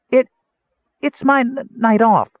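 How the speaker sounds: very high, stammering mouse squeak of indignation; indignant squeak. Acted. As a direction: squeak back, trying to sound offended. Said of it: "an indignant tone of squeak".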